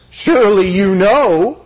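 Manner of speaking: slow, dry sarcasm as God; sarcastic God. Retold or imitated. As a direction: let the sarcasm drip slowly. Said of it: "God says sarcastically".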